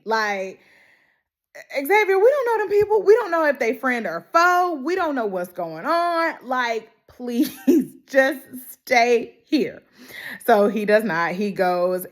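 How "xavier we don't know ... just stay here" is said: pleading. Retold or imitated. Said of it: "And I'm with Annie".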